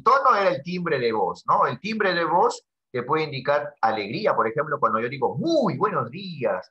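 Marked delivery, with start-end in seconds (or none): 5.4-6.7 bright, slow, cheerful "Muy buenos días"; cheerful greeting. Shown as a demonstration. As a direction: greet the class with joy. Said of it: "ese es mi tono alegre". (saludo alegre y pausado)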